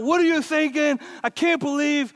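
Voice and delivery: irate boss. Retold or imitated. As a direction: chew him out like the angry shop owner. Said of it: "he's irate. He's chewing him out".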